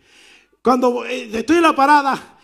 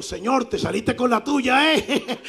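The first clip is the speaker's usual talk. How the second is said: laughing; 4 dB quieter, slower than usual. Retold or imitated. Laughing aside to God.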